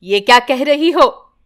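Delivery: a touch of sharp anger; mildly indignant question; understated angry denial. Acted. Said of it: "यूं गुस्से से कहती है".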